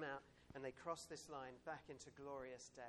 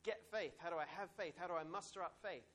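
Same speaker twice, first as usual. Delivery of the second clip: puzzled asker; 4 semitones higher, 6 dB louder than usual. Retold or imitated. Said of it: "and you're like".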